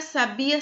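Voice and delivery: "sabia" with the stress on BI; stress on middle syllable. Shown as a demonstration. Teacher listing the three words, "sabia" stressed on BI. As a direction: say "sabia" as sa-BI-a, rising. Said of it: "o acento é no A".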